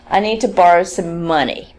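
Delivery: neutral sentence with the stress falling on final "money". Shown as a demonstration. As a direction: land the main stress on the last word, "money". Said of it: "it's the end of the utterance and it's stressed".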